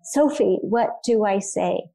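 a hint of a scared five-year-old, drawn out slowly; little broken voice. Five-year-old son on the 911 call asking his sister, a mild broken voice. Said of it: "in his little broken voice".

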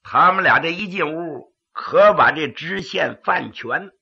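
pingshu storytelling narration; dramatic Chinese storyteller; gravelly dramatic storyteller. A narrator's reading.

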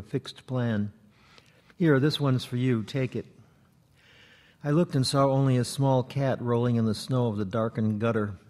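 measured poem recital, phrase by phrase; understated literary reading; poetry reading. Acted. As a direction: read a prose poem aloud to an audience, pausing between phrases. Reads second poem to audience.

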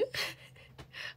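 brief, breathy little laugh; short laugh. Real, not acted. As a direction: laugh it off lightly. Amused at odd chat comment.

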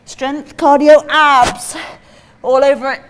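slow, loud, stretched hype words; hyped slogan. Real, not acted. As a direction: sell it like a promo. Coach hyping the workout.

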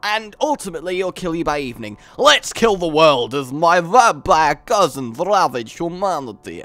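put-on hammy Transylvanian vampire accent; rally the vampires in a mock-Transylvanian accent; put-on Dracula accent, theatrical. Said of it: "I'll stop with the Transylvanian now".

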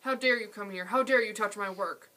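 loud, stressed dare, shouting down; furious old potter. Acted. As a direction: rage at the boy touching his work. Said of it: "he screamed".

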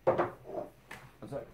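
slow, whispered apology; whispered aside. Real, not acted. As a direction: breathe the apology almost silently. Self-correction aside.

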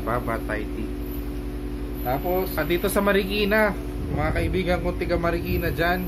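speaking through fabric gaiter; talking through a face mask. Real, not acted. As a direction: mouth covered by cloth. Seen 2: Neck gaiter pulled over mouth and nose throughout; absent in R frames.

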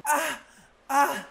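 short mock moans; acted moaning. Castaway swept off by the sea, moaning. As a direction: moan as if struggling in the water. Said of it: "sorry for the moaning".

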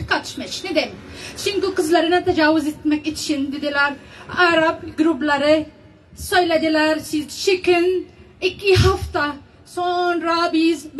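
Arabic-accented, halting broken Turkish; foreigner broken Turkish. Real, not acted. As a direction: speak Turkish as a non-native Arabic speaker. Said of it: "benim Türkçem çok iyi değil".

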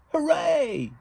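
loud high distant-sounding cheer; echo shouting back. Acted. The echo shouts back at the friends, loud high distant cheer. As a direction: call it back like an echo across the pond. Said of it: "the echo shouted back at them".

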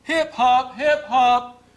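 hip hop hype. Pretend. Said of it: "it sounds like hip hop".

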